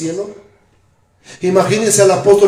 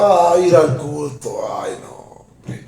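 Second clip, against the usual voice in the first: lazy grumbling; 4 semitones lower than usual. Retold or imitated. Lazy churchgoer voiced.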